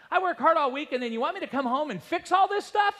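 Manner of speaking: high, loud exasperated protest; grumbling dad. Retold or imitated. Preacher imitating a dad complaining after work. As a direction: vent like a worn-out father. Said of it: "Dad's complaining".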